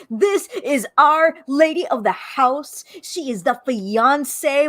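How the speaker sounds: slow, drawn-out proclamation; grand announcement. Acted. Imagining her defending the lady of the house, grand announcement. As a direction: announce it formally, taking your time. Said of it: "Well, not like that".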